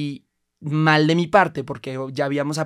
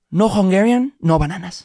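put-on a light Hungarian accent, louder and higher; 4 semitones higher, 7 dB louder, slower than usual. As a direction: snap it back in a Hungarian accent, curt. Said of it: "con acento súper húngaro".

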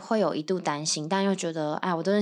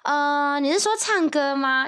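caught off guard; 7 semitones higher, 4 dB louder, slower than usual. Retold or imitated. Caught off guard, retold own reply.

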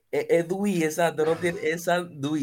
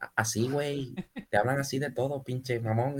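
mock Mexican accent. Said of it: "lo acentúan como uno de los clásicos mexicanos".

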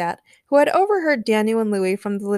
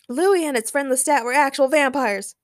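raised, eager voice; excited shout; 6 semitones higher, 3 dB louder than usual. A narrator's reading. Daniel recounts his night to Peter, excited shout. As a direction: blurt it out with high excitement. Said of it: "shouted Daniel".

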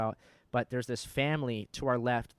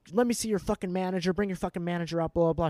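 higher, louder mock tirade at the counter; retold cussing out; 5 semitones higher, 4 dB louder than usual. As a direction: imitate her demanding the manager. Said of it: "she's cussing out this guy".

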